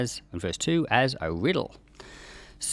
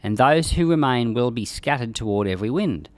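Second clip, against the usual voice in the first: measured, solemn reading of scripture; 4 dB louder than usual. Acted. Teacher reading Ezekiel aloud to the class, solemn reading voice. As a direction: read the prophecy aloud with weight.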